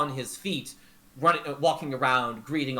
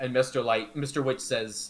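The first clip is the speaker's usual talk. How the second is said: usual speaking voice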